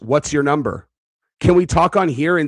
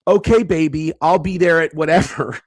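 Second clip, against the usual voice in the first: mock stripper voice; 3 semitones higher than usual. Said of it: "how, like, strippers talk to dudes".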